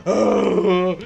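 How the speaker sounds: drawn-out mock moan; imitated crying. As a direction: imitate a weeping mother's wail. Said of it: "'Cause she's crying and shit".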